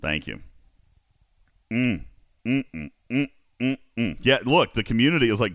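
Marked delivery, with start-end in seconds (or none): none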